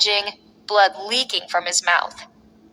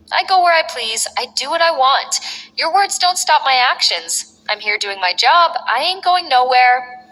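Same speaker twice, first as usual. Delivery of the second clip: defiant; 3 semitones higher than usual. Acted. Defiant wrestler answers the GM.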